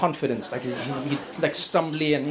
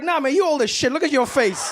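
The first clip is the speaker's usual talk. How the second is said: sassy comeback, pitched up; mock Biden retort; 8 semitones higher than usual. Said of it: "It's like".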